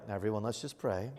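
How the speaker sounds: quietly serene amid the panic; imitating calm wife. Wife calming everyone on the boat, soft and composed.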